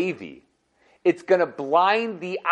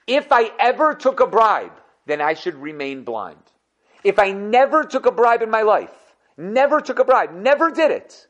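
earnest oath; 4 semitones higher than usual. Acted. Blind judge swears his innocence.

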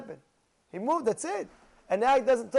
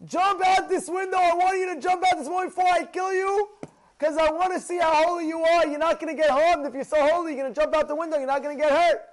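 high, loud, shouting demand; shouted threat; 8 semitones higher, 5 dB louder than usual. Retold or imitated. Intruder with an axe shouting at the rabbi: high, loud threat. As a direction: yell it at him, daring him to jump. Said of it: "And he said to the rabbi".

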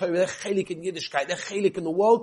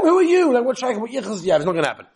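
high mock scorn; a touch of mocking disdain; scornful townsfolk; 7 semitones higher, 6 dB louder, faster than usual. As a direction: sneer at the poor suitor. People mocking the poor guy.

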